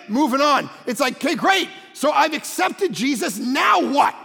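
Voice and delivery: punchy, emphatic sermon delivery; preaching. Real, not acted. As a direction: preach it to the room, driving each point home. Preaches to congregation.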